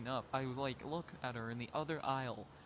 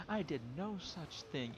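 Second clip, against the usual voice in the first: mock indignant denial; 3 semitones higher, slower than usual. Retold woman denying the slap.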